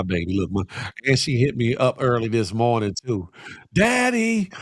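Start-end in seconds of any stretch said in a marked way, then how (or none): 3.7-4.5 excited. Retold or imitated.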